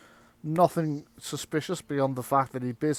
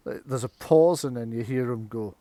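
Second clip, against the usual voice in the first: ordinary talk, nothing marked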